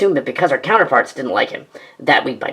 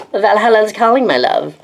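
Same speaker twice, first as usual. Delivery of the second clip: battle cry; 7 semitones higher, 5 dB louder than usual. Acted. Heroic last charge cry.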